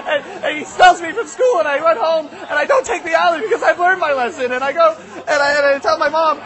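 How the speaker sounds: put-on a touch of breathless kid indignation; worked-up kid. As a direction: tell it like an upset boy piling up grievances. Boy's frantic tale of woe.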